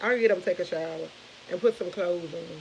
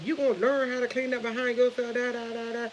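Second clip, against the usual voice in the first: mock yelling; 4 semitones higher than usual. Mom retelling how she scolded her son, mock yelling. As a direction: scold in a high voice, trailing into da-da filler. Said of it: "I got to yelling at him".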